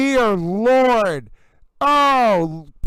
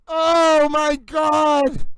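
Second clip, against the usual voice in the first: furious yell; 3 semitones higher, much slower than usual. Real, not acted. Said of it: "you heard me yelling".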